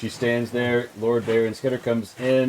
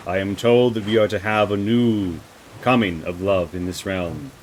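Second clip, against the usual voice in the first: measured, solemn noble pledge; lightly voiced vassal speaking formally; earnest loyal lady; 3 semitones lower than usual. Lady explains her loyalty to the liege, solemn.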